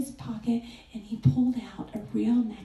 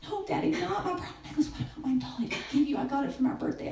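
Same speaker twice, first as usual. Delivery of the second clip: put-on pleading little girl; 3 semitones higher, 4 dB quieter, faster than usual. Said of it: "and she's just like".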